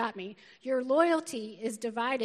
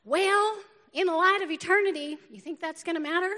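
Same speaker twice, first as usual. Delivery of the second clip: higher-pitched imitation of a Southern friend; Southern-accented friend, pitched up; Southern North Carolina accent; 4 semitones higher, 5 dB louder than usual. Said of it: "in a really Southern North Carolina accent to this Yankee girl".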